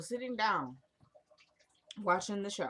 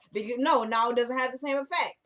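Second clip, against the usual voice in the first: higher and louder in mock dismay; louder, higher frustration; 4 semitones higher, 5 dB louder than usual. Real, not acted. Lamenting her ruined quote loudly to viewers. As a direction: mourn the lost moment loudly. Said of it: "I just ruined the moment".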